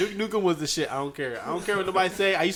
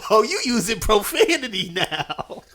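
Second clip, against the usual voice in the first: mock rapper; 3 semitones higher, 3 dB louder, slower than usual. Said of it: "you can't not say it in his voice".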